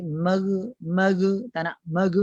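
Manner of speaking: MER with an extra bounced vowel, 'meghu'; released consonant. Shown as a demonstration. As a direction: let the final sound of mer escape. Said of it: "jangan terlepas dia punya". (mer terlepas dengan pantulan)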